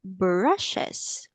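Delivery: "brushes" drawn out in clear syllables; careful slow model word; said slowly. Shown as a demonstration. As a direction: say "brushes" slowly for a learner to copy. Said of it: "Let's say it slowly".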